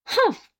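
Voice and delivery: a short, high, mildly disappointed humph. A narrator's reading. Wife let down by his answer, a high disappointed humph. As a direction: huff it out, let down.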